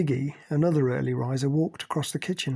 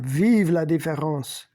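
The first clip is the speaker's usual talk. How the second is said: whispered mock French, slow; 2 semitones higher, 5 dB louder, slower than usual. A narrator's reading. Pascal teasing Cynthia, whispered French. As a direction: breathe it like a sly French aside. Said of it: "Pascal chimed in".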